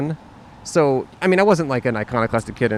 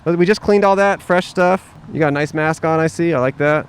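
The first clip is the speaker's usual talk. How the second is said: friendly cop act; 3 semitones higher, 3 dB louder than usual. Pretend. Playing restaurant cop to skater.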